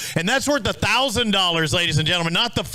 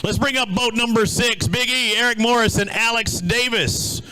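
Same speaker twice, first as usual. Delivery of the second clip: slightly lifted emcee introduction; announcer call-up; 4 semitones higher than usual. Real, not acted. Host brings up boat number six, announcer voice. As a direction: call the next team up to the stage. Emcee calls next team to the stage.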